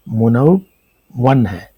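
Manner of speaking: منون stretched very slowly, each sound clear; slow teaching enunciation; drawn-out demo word. Shown as a demonstration. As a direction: spell out منون slowly for students.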